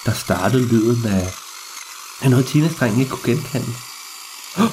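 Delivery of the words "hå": startled gasp. Acted. Startled by the eerie sound.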